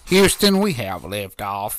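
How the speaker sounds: booming, drawn-out launch call; mission control voice. Pretend. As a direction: announce liftoff like NASA. Mock rocket launch after countdown.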